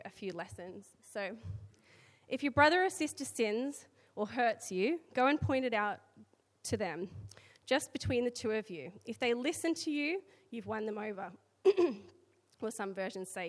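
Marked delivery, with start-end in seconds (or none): 2.3-11.3 scripture reading. Acted. Reads the scripture passage aloud.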